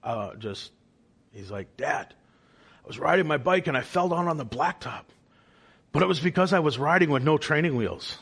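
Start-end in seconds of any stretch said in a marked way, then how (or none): 1.8-8.2 put-on higher, quick retelling of a thrilled kid; excitedly reporting to Dad, mildly acted; excited child. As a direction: lightly imitate a son bursting with news. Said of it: "was just excited, and he exclaimed".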